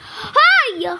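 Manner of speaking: sharp yell for attention; loud hey. Real, not acted. Yelling at a pesky player to stop.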